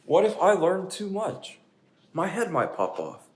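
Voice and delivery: slow worried pigeon. Acted. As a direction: worry your head might pop.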